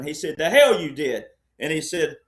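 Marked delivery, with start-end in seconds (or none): 0.4-1.3 barked, louder retort; yelling. Retold or imitated. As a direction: snap back hard. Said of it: "the more John Wayne yelled at him".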